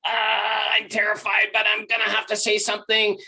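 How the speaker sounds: steeling yourself at the edge; terrified. Retold or imitated. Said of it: "go up to the edge and like".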